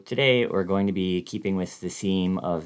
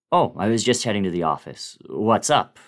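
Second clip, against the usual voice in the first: louder, raised voice over the truck noise; talking louder; 3 semitones higher, 6 dB louder, faster than usual. Retold or imitated. Driver on the phone to Bill, speaking loudly over Bluetooth. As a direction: speak up so the Bluetooth catches you. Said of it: "speaking louder than usual so that my voice would be picked up".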